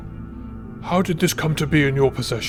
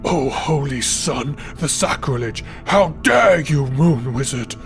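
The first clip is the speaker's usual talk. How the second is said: offended exclamation. Acted. Priest offended by the moon wizard, outraged exclamation. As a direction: burst out, scandalised, on the dare. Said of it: "exclaimed Ernon".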